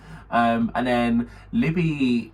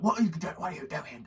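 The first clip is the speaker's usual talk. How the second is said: imitated teacher; 5 semitones higher, 5 dB quieter than usual. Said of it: "Miss Cinder comes up like".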